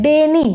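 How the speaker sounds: डे, नी as two beats; a slight break between डे and नी; split into syllables. Shown as a demonstration. Teacher counting two syllables, डे, नी kept apart. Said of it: "फिर हम नी बोलते हैं".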